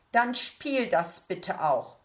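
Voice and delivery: slow, pointed teacher's rebuke; stern teacher. Acted. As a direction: spell it out slowly to the pupil. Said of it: "sagte Frau Leberknecht".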